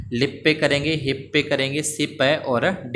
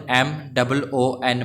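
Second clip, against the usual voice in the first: slow spelling; slower than usual. Shown as a demonstration. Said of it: "चंद्रमा को English के अंदर मून".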